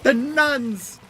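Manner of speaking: loud, high mock yell; imitating the yelling. Retelling the nuns bit to chat, loud mock yell. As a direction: shout it like she remembers hearing it. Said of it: "all you could think of is".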